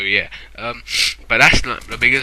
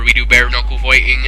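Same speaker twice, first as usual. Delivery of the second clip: Ian Holloway; 5 dB louder than usual. Retold or imitated. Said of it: "now I sound like, um, Ian Holloway".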